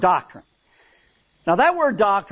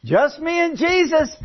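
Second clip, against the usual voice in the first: parrot voice; 8 semitones higher than usual. Retold or imitated. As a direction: answer from the dark like a parrot. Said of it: "down that dark hallway came this voice".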